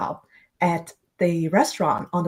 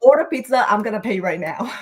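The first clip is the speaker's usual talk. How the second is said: retold scolding; 2 semitones higher, 4 dB louder than usual. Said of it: "scolded him".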